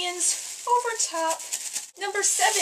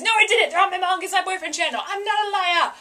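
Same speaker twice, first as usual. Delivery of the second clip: loud, fast mock protest; indignant; 3 semitones higher, 5 dB louder, faster than usual. Real, not acted. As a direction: insist you're innocent. Defending herself to viewers.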